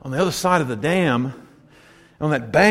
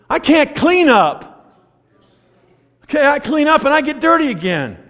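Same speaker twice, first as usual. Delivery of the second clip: preaching emphasis; 10 semitones higher, 3 dB louder than usual. Acted. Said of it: "sermon climax".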